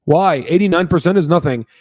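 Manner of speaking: mock investor with an Indian accent. Retail investor challenging the returns, in an Indian accent. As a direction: protest in a put-on Indian accent. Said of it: "I don't know why I did an Indian accent".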